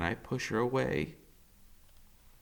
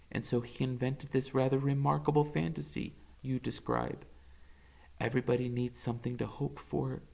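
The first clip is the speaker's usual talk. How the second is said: a lightly voiced soft doctor, quieter; tired, kind doctor breaking bad news; gentle doctor; 6 dB quieter than usual. Doctor Spivak telling Max the news, soft and gentle.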